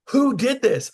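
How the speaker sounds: the owner pressing in amazement; shocked boss. Retold or imitated. Owner repeating the question.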